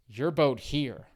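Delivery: imitated Vietnamese accent. Driver pointing to other boat.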